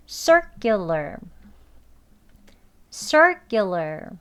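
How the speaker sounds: "circular" slowly, strong "sir" and tight kk; tense k, relaxed ending. Shown as a demonstration. Teacher giving two models to copy, "circular" slow with tense k. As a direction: stress "sir" in "circular", then ease off. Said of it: "힘 빼시고".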